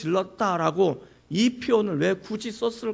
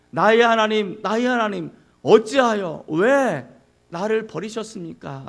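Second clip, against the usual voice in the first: anguished cry; 5 dB louder than usual. Acted. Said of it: "고통의 부르짖음".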